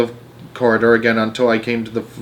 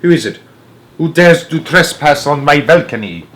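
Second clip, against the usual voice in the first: menacing witch, louder; 4 semitones higher, 5 dB louder than usual. A narrator's reading. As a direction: threaten the trespasser as the witch. Witch demanding intruder.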